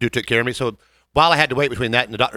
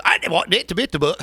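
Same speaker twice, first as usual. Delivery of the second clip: lightly mocked Cockney accent; a garbled attempt at Cockney speech; imitating a singer; 3 semitones higher than usual. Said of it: "I'm not gonna try to do a Cockney accent".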